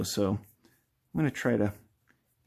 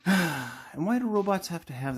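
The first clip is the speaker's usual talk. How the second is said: alien voice; 7 semitones higher than usual. Shown as a demonstration. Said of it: "why does a robot voice kinda sound like an alien voice".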